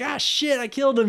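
high, loud mock dismay; hammed-up panicked outburst; mock horror. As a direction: play up the horrified realization. Acts Violet thinking she killed him.

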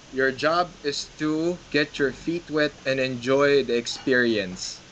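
slow, deliberate, every word weighed; slow emphatic advice. Shown as a demonstration. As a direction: lay it down slowly for first-timers. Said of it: "That's it".

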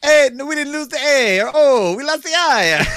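high, loud mock protest breaking into laughter; mock outcry. Joking over the lost vowels, high mock protest.

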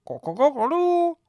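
high loud cock-a-doodle-doo; rooster crow. A narrator's reading. Imitating a rooster.

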